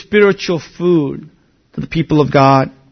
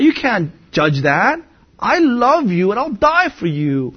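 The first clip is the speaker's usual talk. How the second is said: higher-pitched, indignant vow; proud protest; 5 semitones higher than usual. Acted. Peter protesting his love to Jesus, proud and indignant. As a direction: overconfident insistence, swooping up on key words. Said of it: "What pride?".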